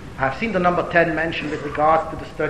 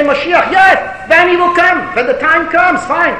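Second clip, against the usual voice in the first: high-pitched mock agreement; doubters' airy yes-yes, pitched well up; dismissive concession; 10 semitones higher, 6 dB louder, slower than usual. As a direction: brush it off as someday, not now. Acted brush-off by doubters.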